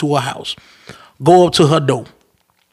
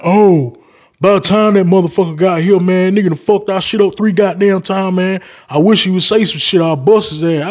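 put-on boyfriend voice; 4 semitones higher than usual. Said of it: "that motherfucker was like".

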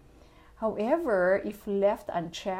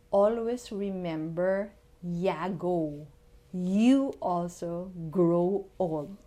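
repeating for the tenth time; 2 semitones lower, slower than usual. Shown as a demonstration. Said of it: "Yan, pakiulit lang".

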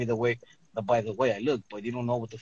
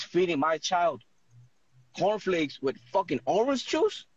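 retold angry rant, pitched up; mad; 5 semitones higher than usual. Angry parent confronting school over breakfast, mad. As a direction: confront the counselor, high and indignant without shouting. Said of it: "I got mad. I'm like".

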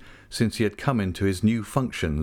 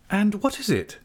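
bright, raised and friendly question; light encouraging lift; cheerful; 12 semitones higher than usual. A narrator's reading. Agnes cheerfully drawing David out: bright friendly question. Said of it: "said Agnes cheerfully".

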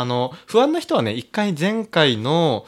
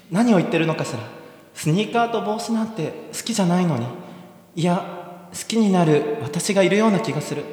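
put-on higher, girlish heroine voice, dreamy then gushing; giddy heroine; 5 semitones higher than usual. Heroine swooning over the soldier, giddy high voice. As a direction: play the lovestruck girl.

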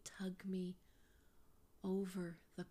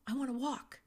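put-on higher, louder little boy voice; child's request; 6 semitones higher, 7 dB louder than usual. Small son telling his mother he wants to walk, high and loud. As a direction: say it like a determined small kid.

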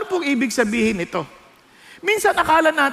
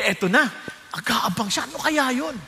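normal talking voice

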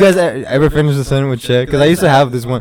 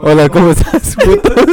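goofy Spanish greeting; 3 semitones higher than usual. Pretend. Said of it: "No, no, no, no funny shit".

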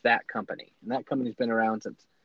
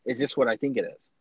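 amazed; 2 semitones higher than usual. Retold or imitated. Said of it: "and goes".

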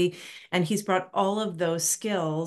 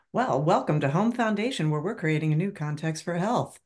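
smooth promo announcer read. Pretend. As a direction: voice it like a radio ad. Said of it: "That's my announcer voice".

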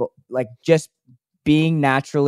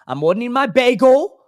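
high, raised mock-Italian voice; attempted Italian accent; 9 semitones higher, 4 dB louder than usual. Playing angry bagel shop customer, high Italian accent. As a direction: try a New York Italian accent, high. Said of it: "that was my Italian voice".

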